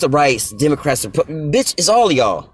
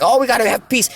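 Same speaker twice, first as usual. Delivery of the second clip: high, mock-sweet voice; mock pious quote; 10 semitones higher than usual. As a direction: sneer at their fake peace talk.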